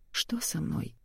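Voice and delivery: soft, hushed question; whispered. A narrator's reading. Injured patient waking in hospital asks the nurse, whispering. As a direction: ask softly, almost whispering. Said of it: "прошептала Маша".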